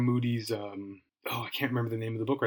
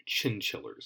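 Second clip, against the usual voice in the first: breathy whispered repeat of Chinchillers, much softer; whispered echo; 2 semitones lower, 8 dB quieter than usual. Real, not acted. Podcaster repeating the ice cream brand name, whispered.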